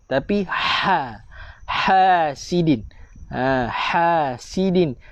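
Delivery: "Hasidin" with a slow, airy throat ha; breathy ha. Shown as a demonstration. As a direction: push air out on the ha of "Hasidin". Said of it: "Ha pedas". ("Hasidin" dengan ha pedas, keluarkan angin)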